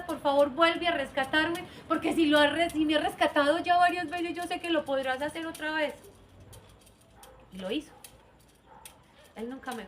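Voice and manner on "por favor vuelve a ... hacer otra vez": earnest plea. Retold or imitated. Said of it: "le suplica con todas las fuerzas".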